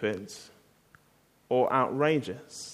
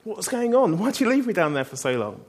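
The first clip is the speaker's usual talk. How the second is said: annoyed; 5 semitones higher than usual. Pretend. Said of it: "You can imagine him being really annoyed".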